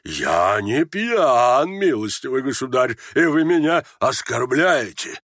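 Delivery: offended general, drawn-out words; indignant cry. Acted. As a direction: protest with slow, wounded indignation. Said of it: "крикнул генерал". (возмущённо, с обидой)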